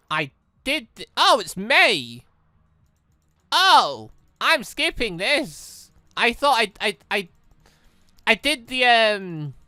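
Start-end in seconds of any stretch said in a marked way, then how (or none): none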